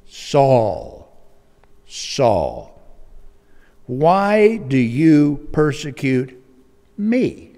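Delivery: loud, slow, weighty heavenly voice. Acted. Heavenly voice accusing Saul, slow and loud. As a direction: space the words out with divine force. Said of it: "the voice spoke to me".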